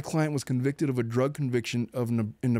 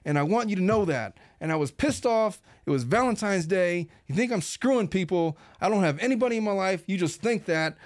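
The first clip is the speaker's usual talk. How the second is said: higher-pitched, insistent retold tirade; berating rant; 5 semitones higher than usual. Wife berating her husband on a recording, insistent. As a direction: imitate a relentless stream of accusations. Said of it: "That is a stream of consciousness audio recording".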